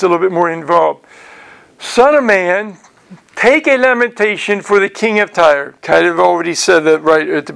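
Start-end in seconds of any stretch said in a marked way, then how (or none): 1.8-5.7 higher-pitched, measured reading aloud; scripture reading. Acted. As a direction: read it out as a solemn verse.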